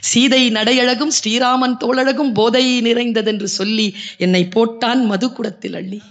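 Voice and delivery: relished second recital of the poem; savouring poem recital. Shown as a demonstration. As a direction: sing the verse out with delight. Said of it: "எப்படியா?".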